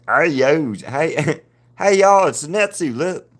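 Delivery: high, hammed-up rednecky drawl. Streamer jokes her drawing talks in a redneck accent. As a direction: play a goofy redneck calling out hey y'all. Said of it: "a real rednecky sounding".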